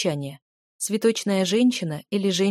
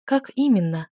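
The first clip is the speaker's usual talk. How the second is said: coquettish breathy question; breathy and flirty; 3 dB louder than usual. Acted. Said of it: "кокетливо и с придыханием".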